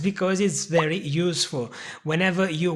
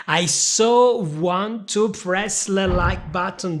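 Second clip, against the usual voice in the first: slow, louder mock-eager so; playful eagerness; 4 dB louder, slower than usual. Shown as a demonstration. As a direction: ham up how badly you want to click. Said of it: "playful example of so".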